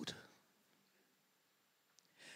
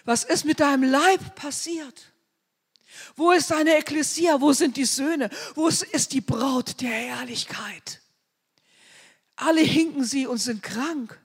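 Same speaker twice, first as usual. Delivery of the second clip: lament to God; 4 semitones higher, 3 dB louder than usual. Retold or imitated. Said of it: "da sage ich, oh Gott".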